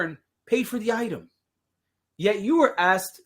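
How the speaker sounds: late night infomercial voice; infomercial style. Pretend. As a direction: pitch it like a 3 a.m. ad. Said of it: "Let's do this infomercial style".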